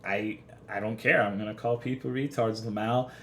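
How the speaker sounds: understated, unbothered comeback; retold nonchalance. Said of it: "I'm sitting here like".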